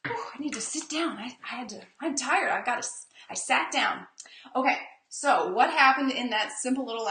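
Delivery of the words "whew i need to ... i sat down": mock tired. Acts out sitting down tired.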